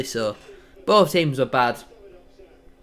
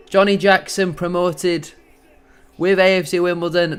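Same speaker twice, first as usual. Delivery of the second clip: excited call; 4 semitones higher, 4 dB louder than usual. Real, not acted. Celebrating promotion live.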